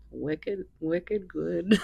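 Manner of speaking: light attempt at a thick Boston accent, wicked good; wicked good tossed off in a half-hearted Boston accent; mock Boston accent. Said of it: "in, like, a thick Boston accent".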